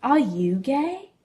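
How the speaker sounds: slow, careful question; slow hesitant asking; said slowly. Acted. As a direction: draw each word out, unsure. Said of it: "he said slowly".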